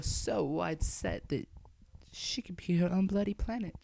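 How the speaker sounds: hushed whisper; whispered aside. Real, not acted.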